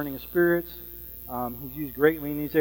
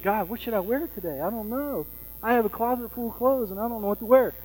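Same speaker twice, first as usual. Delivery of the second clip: mild mock helplessness; 5 semitones higher than usual. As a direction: put on a dithering, indecisive prayer. Voicing someone dithering over clothes.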